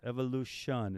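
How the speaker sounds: "Evolution" ending in a full SHAUN; stylized band-name pronunciation. Shown as a demonstration. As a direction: say "Evolution" as evo-loo-SHAUN. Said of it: "is how they pronounce it".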